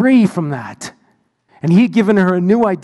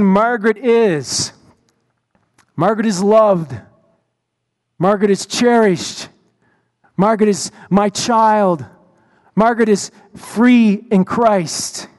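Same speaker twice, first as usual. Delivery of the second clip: solemn declaration. Retold or imitated. Jesus writing new words on chalkboard.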